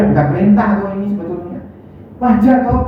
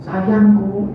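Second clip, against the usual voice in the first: tender endearment. Shown as a demonstration.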